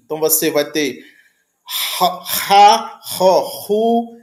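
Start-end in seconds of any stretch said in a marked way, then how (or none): 2.0-4.2 back-of-throat "ra, ro, ru"; back fricative. Shown as a demonstration. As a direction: rasp "ra, ro, ru" from the back. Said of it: "Um mais pra trás".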